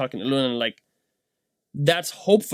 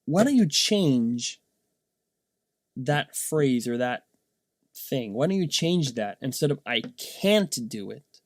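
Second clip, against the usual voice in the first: gentle coaching; slower than usual. Retold or imitated.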